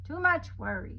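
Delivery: grandma shakes her head aloud; grandmother voice. Acted. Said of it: "said her grandmother".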